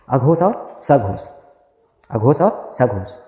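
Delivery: slow, each word "अघोष और सघोष" spaced out for note-taking; slow dictation. Shown as a demonstration. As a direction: spell it out slowly so the class can write "अघोष" and "सघोष". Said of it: "तो कौन कौन से दो भाग हुए?". (धीरे-धीरे, "अघोष और सघोष" को लिखवाते हुए)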